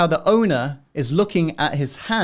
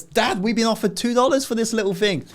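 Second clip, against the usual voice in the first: put-on excited little boy; 8 semitones higher than usual. Boy reports offer to dad.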